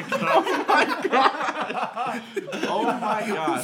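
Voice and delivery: high laughing oh my God. Real, not acted. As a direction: squeal it through laughter. Laughing fit.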